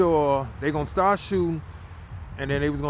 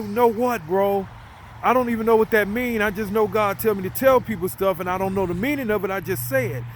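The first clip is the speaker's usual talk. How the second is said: retold baffled protest; 6 semitones higher, 3 dB louder than usual. Confused protest to shocked buddy.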